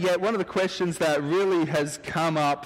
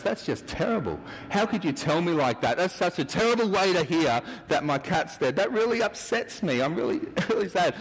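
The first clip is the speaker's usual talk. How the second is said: mock upset; 6 semitones higher than usual. Businessman upset at butler.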